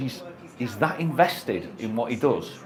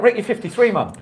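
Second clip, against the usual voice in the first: high, laughing mock scolding; a friend teasing Rick about his age, laughing; laughing mock reply; 7 semitones higher than usual. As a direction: laugh through the imagined put-down. Mate's imagined reply, laughing.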